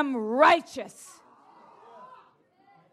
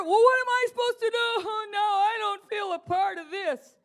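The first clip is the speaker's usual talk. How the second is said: mock complaint; 4 semitones higher than usual. Mimics listener's whining objection.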